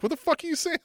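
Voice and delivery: very high-pitched mock disbelief; imitating stunned incredulity; Brock Lesnar, baffled. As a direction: squeak out a baffled challenge. Voicing Brock's baffled reply.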